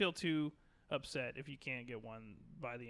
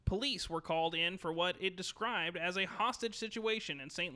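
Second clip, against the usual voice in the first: news anchor. Shown as a demonstration. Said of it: "let me read this like a news anchor".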